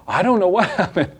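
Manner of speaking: high, hammed-up plea of innocence; mock-upset little one's excuse; dramatic child. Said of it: "It's really, really dramatic usually".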